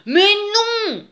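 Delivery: emphatic storybook contradiction; rumbled retort. A narrator's reading. Dirty bear argues back at the she-bear, growled retort. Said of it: "gronda l'ours très".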